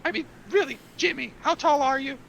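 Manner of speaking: high, loud, insistent recruit voice; pushy pirate recruit. Acted. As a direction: badger him like an over-eager would-be pirate. Recruit badgers Jimmy for pants.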